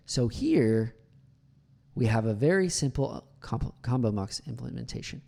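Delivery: SO HERE, a clear pause, then the rest; well-placed pause. Shown as a demonstration. Coach shows when to pause, break after HERE. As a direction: stop after HERE before going on. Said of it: "knowing like when to pause".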